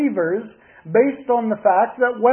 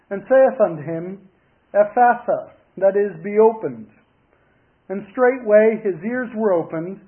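measured, formal Bible reading in phrases; scripture reading. Acted. Preacher reads Mark's Gospel to the congregation, measured scripture reading. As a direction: read solemnly from the Gospel, pausing between verses.

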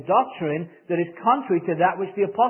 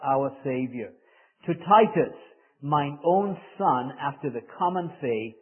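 scripture reading. Acted. Reads the scripture passage aloud.

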